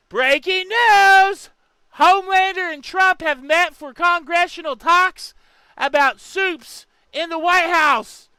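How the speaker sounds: hammed-up news anchor. Mock news announcement.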